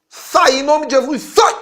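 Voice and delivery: high, loud command to cast out; commanding shout. Retold or imitated. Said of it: "dar ordem pra um demônio". (grito de ordem, subindo no último sai)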